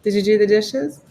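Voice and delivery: stern mom asking. Pretend. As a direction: demand it like a mom checking chores. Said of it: "That's my mom voice".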